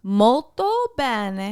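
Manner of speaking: slowed, careful Molto bene; patient teaching repeat; slow correction. Shown as a demonstration. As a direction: spell out Molto bene slowly to correct him. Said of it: "Multi pennies?".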